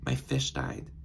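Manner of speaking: imitating a friend's sobbing words, breathy and quiet; retold crying. Friend calls sobbing that her fish died, hushed mock sob. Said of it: "She's calling me and she's crying".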